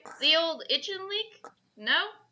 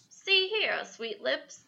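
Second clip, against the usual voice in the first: detective voice. Acted. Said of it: "do a detective voice".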